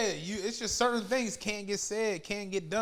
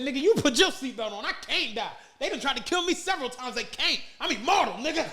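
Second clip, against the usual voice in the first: imitating a rapper; 2 semitones higher than usual. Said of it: "He said".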